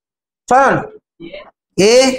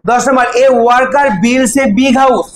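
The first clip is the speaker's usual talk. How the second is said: slow, word by word dictation; much slower than usual. Shown as a demonstration. Teacher dictating question ten, very slow and deliberate. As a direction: spell it out slowly for the class to write.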